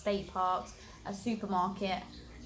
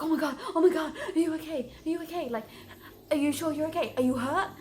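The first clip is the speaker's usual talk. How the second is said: high, loud mock panic, half laughing; hammed-up alarm at a fall; imitating panicked Americans; 7 semitones higher, 4 dB louder, faster than usual. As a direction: squeal it like worried strangers. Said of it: "they were like".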